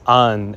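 'an' as 'un', vowel before n; pronounced an. Shown as a demonstration. Teacher gives the feminine word ending, 'an' with vowel first. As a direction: close 'an' on the n. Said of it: "So it's pronounced".

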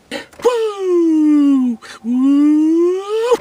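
high, loud woo; excited whoop. Real, not acted. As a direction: whoop with glee. Cheering at calorie count.

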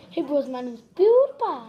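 lightly imitated intro, name swooping up; chuckling mock vlogger intro; PewDiePie. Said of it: "Say PewDiePie this time".

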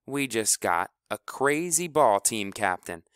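riled up. Acted. Kleebo turns the team against their captain, loud and riled. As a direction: stir the team against him.

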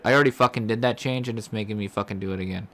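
exasperated fury at a pointless repeat; angry rant. Real, not acted. Manager fuming that the game makes him redo a change, fast and angry.

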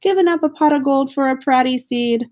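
a wife telling off her husband, mildly furious. Acted.

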